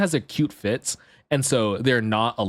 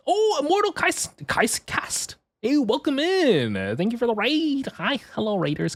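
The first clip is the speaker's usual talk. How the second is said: excited greeting; 10 semitones higher than usual. Real, not acted. Greeting incoming raiders.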